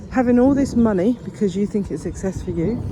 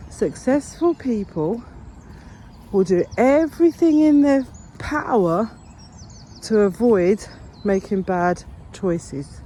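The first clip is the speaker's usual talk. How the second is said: measured and emphatic, with "everything" raised; 2 semitones higher, slower than usual. Real, not acted. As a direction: hammer home the key principle, word by word. Repeats key principle for emphasis.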